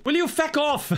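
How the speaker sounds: high, exasperated Irish Walter White. Acted. Exasperated parent shooing kids from the stove. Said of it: "That's what Walter White would have sounded like if he were Irish".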